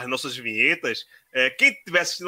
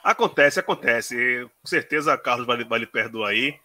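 ordinary delivery

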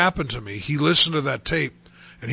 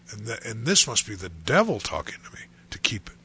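unvoiced whisper to himself; quietly working out the devil's voice; hushed aside; 3 semitones lower, 6 dB quieter than usual. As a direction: let it drop to a whisper, thinking it through. Musing aloud about God and devil.

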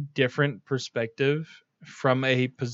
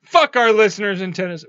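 higher, playful outburst; half-serious raised-voice tirade; mock yelling; 4 semitones higher, 4 dB louder than usual. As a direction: rant at the audience in mock outrage. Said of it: "why is giant Sasquatch yelling at us".

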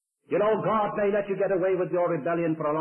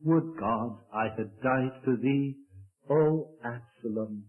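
low slow lament; 3 semitones lower, slower than usual. Acted. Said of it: "he wept".

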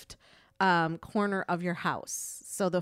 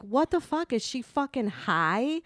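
retold angry yelling; 5 semitones higher than usual. Retelling yelling at him over reckless driving, indignant. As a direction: act out yelling at him, not at full volume. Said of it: "I start yelling at him".

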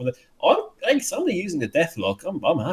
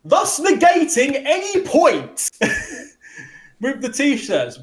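dry sarcasm; 9 semitones higher, slower than usual. Real, not acted. Sarcastic punchline about T-shirts.

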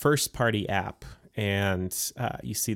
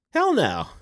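higher, louder hell no; emphatic hell no; 7 semitones higher, 3 dB louder than usual. Real, not acted. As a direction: punch hell no out. Emphatic rhetorical answer.

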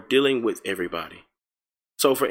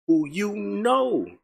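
drawn-out, higher, pointed aside; knowing aside; 8 semitones higher, much slower than usual. Real, not acted. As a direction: let the jab hang slowly. Mocking aside about hypocrites.

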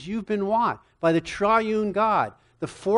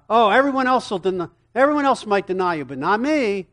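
eager boast; 4 semitones higher, 4 dB louder, faster than usual. Acted. Peter boasting loyalty to Jesus.

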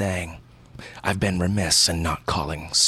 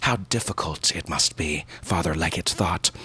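ordinary delivery

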